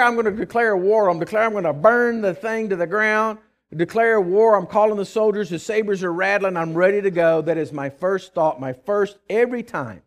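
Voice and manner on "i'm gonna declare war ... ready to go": loud, higher, fired-up declaration of war; mock war cry. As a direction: ham up a hot-headed threat to burn it down. Pastor acting out angry first thought.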